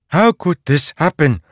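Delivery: high, loud, immovable demand; mother confronting the farmer, fierce and loud; strong and firm. A narrator's reading. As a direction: stand like a towering tree and demand an answer. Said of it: "her voice strong like a towering tree".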